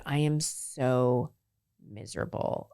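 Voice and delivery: slow and fading to a near-breathless sob; retold crying. Friend confides on the dock, mild retold crying. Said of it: "as I'm sitting there crying".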